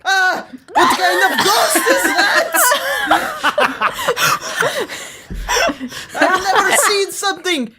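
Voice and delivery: hammed-up frightened shout; mock fright. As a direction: jump at a ghostly bag. Ezio frightened by plastic bag.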